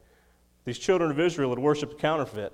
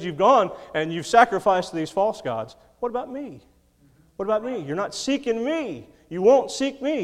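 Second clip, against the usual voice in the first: higher, aching plea as God; God pleading; 6 semitones higher, 4 dB louder than usual. Acted. Preacher voices God pleading with Israel, raised and aching. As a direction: voice God's hurt at being forgotten. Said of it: "He said".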